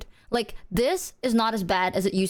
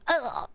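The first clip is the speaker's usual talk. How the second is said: short grunt of a spasm; imitated sleep jolt; 3 semitones higher, 3 dB quieter than usual. Showing a friend how she jerks, short grunt. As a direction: grunt as if jolting asleep. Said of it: "you just go".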